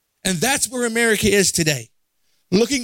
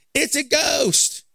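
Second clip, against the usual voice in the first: drawn-out, higher mock cry of fear; fearful cry; 7 semitones higher, much slower than usual. Preacher voicing terrified disciples on the lake, fearful cry. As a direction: call it out slowly as if spooked. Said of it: "cried out in fear".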